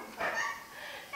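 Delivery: high, soft giggle; unhinged little laugh. Acted. Shopper after the man falls, soft crazed giggle. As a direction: giggle under the breath, slightly crazed.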